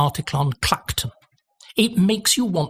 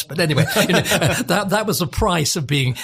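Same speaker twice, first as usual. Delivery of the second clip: laughing; 2 semitones higher than usual. Real, not acted. Laughs off the Duchess remark.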